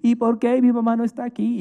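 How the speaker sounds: lightly voiced girl, mock crying; crying little girl. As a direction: imitate a five-year-old pleading for mom.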